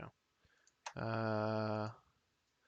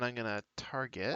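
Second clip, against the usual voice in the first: shouted impression; 4 dB quieter than usual. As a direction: bellow it out as the monster. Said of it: "That was an excellent impression".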